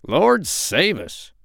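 high, slow exclamation of shock; duck crying out. A narrator's reading. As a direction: cry out in alarm as a duck. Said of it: "cried the duck".

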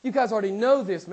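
lightly voiced apostle; voicing James. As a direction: hand it to them like James would. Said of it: "he says".

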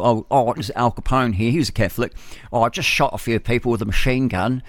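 lightly put-on English accent; a hint of a badly faked Pommy gangster accent; Pommy-accented Al Capone. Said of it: "he wouldn't have spoken with the Pommy accent".

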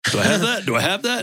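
suddenly scared, ask it twice, voice jumping up; hammed-up alarm at the diagnosis; mock panic. Sudden fear about the disease.

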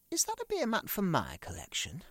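high, hesitant plea; high nervous question; timid high question. Acted. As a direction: ask it meekly and high.

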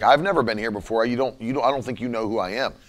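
quiet, fast and unsure; a man caught off guard, quietly rattled; nervous mumble. Retold or imitated. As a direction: mutter it, thrown off. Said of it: "kind of freaked out by it".

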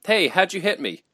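high, loud whine of protest; indignant, high-pitched mock complaint; mock complaining. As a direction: imitate a player griping at the ref. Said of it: "Patty Mahomes first complains".

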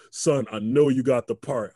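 father on the phone, slow and loud; father's voice. Retold or imitated. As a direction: speak like a proud dad. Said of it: "My father called me up".

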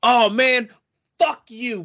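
high, loud mock outburst; Corey. Calm friend suddenly cussing someone out, high mock outburst. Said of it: "if Corey started being like".

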